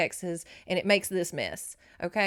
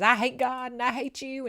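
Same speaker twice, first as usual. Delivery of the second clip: mock angry teen; 5 semitones higher, 3 dB louder than usual. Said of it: "She says".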